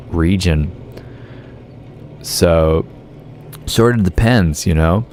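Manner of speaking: put-on American accent. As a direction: talk like an American. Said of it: "doing a whole stream as an American".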